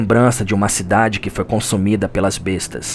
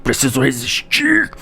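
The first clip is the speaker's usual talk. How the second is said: desperate resolve; 9 semitones higher than usual. Pretend. Narrator voices hunter facing boss.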